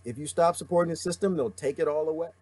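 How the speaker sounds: straining a worn-out voice; losing voice. Real, not acted. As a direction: voice giving out, strained. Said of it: "Oh, I'm losing my voice".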